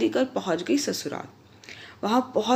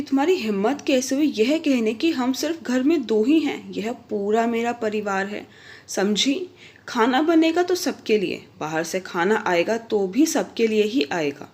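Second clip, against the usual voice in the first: angry. Acted. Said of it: "वह बहुत गुस्सा हुए".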